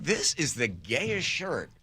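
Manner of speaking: soft, slow hushed aside; soft, slow mock confiding; mock hushed question. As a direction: lean in and say it softly. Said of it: "I was like".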